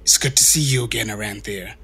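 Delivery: low ghostly whisper; dark ghostly voice. Acted. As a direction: breathe it like a ghost. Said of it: "she says in a kind of dark, ghostly voice".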